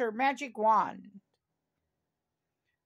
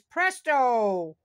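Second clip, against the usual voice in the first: magic word call; 4 dB louder than usual. Acted. Princess casts magic word.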